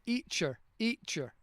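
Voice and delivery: "eacher" with the T left off the start; dropped T. Retold or imitated. Imitating students who call their teacher "eacher". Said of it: "they don't pronounce the T".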